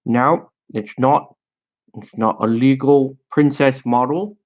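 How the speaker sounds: badly faked British power gamer; mock British nitpicker, drawn-out vowels; terrible British accent. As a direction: rule against them in a hokey British accent. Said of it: "some power gamer British guy's like".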